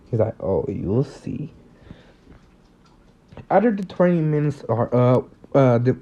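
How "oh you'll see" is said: low, soft and slow, smug with a grin; hint of a threat behind a smirk; evil smirk. Bakugo teasing the rivals, slow smug smirk. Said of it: "an evil smirk".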